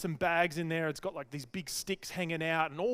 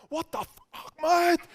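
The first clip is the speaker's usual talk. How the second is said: high-pitched, exasperated outburst, building to a yell; mock outraged yell; 12 semitones higher, 6 dB louder than usual. Mario seeing the wrong trolley, hammed-up outrage. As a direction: explode in hammed-up disbelief.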